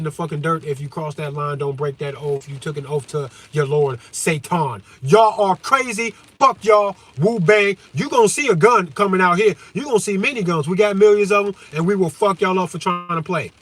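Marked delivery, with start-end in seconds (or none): 5.0-13.5 heated shouting. Real, not acted. Warning his enemies, a loud angry rant. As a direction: yell it at them, fired up. Ranting threats at his opponents.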